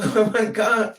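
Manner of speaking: loud, high mock shriek of shock; retold shocked outcry. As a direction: cry out like the stunned girl.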